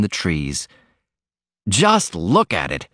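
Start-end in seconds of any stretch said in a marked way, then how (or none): 1.7-2.9 wondering cry. Acted. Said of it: "he cried".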